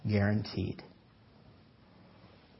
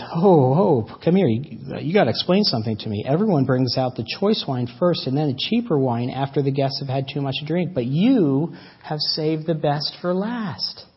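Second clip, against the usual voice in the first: a hint of an excited host calling out; lightly voiced banquet master hailing the groom; 4 dB louder than usual.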